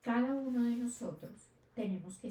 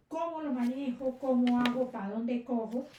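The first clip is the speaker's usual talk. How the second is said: mock plea for help, louder on the middle question; apremio imitado; 5 dB louder than usual. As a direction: act out being at a loss, insistent questions. Voicing a believer's anxious questions to God. (súplica apurada, imitada)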